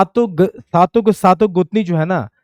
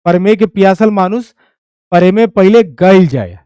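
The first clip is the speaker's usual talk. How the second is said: recited line; 5 dB louder than usual. Shown as a demonstration. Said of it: "ये देखो".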